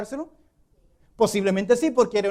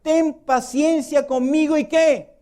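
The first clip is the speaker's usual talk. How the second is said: higher, slow begging servant's plea; pleading servant; 6 semitones higher, slower than usual. Acted. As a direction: beg the king for patience, drawn out. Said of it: "le suplicaba". (súplica lenta y aguda del siervo)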